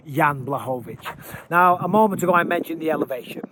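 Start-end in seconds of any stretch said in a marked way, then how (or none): 1.5-3.4 winded from walking up steps; puffing between words; out of breath. Real, not acted. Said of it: "getting me out of breath".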